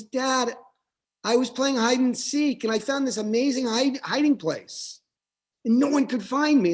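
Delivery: a hint of an eager kid telling his dad; little boy voice. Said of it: "The boy says".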